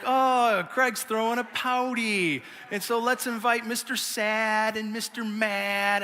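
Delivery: lightly voiced dad mocking his sulking son; teasing dad. Dad teasing his sulking kid, slow and sing-song. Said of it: "my dad used to call these moments pouties".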